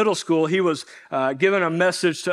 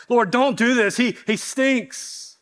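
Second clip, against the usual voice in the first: higher, whiny mock plea from Martha, voice pulled thin; pleading protest; 5 semitones higher, slower than usual. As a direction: beg the Lord to stop, slowly. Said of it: "imagine that".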